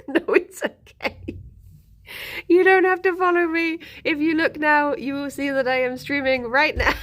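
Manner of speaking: exasperated reply told through giggles; mock-polite insistence, laughing at the end; laughing retold protest. Retells exasperated reply while giggling.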